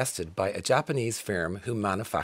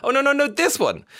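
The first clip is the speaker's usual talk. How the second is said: high, loud no no no, then this one; mock excited correction; 13 semitones higher, 5 dB louder than usual. Friends retelling a hasty song switch, high and gushing. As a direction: gush as you change your mind. Acting out changing mind.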